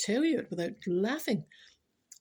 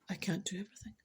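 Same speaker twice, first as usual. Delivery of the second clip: unvoiced whisper, much softer; 8 dB quieter, faster than usual. Real, not acted. Whispering to listeners that she can't do everything. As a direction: breathe it out as a tired aside. Muttered to self.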